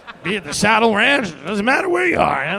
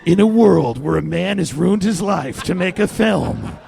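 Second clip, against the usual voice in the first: movie trailer voice. Pretend. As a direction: announce it like a blockbuster trailer. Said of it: "you wanna do the movie trailer voice for this?".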